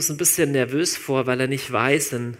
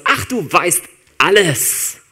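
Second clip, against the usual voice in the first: slow, drawn-out, higher, louder dismissive ach; dismissive sigh; 5 semitones higher, 10 dB louder, much slower than usual. Shown as a demonstration. Not how Petrus says it to Jesus: a dismissive, drawn-out ach. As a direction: wave it off with a long weary ach. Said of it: "das ist nicht sowas".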